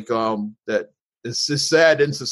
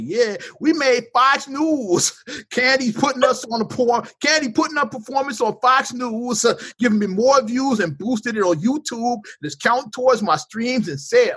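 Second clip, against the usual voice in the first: put-on voice, pitched very high; 11 semitones higher than usual. Reading a reply tweet aloud in an impression of a rapper. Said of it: "The rapper's worse than my Candace Owens".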